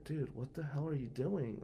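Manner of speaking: hushed whisper into his ear. Retold or imitated. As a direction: whisper it close and urgent. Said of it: "I'm whispering in his ear".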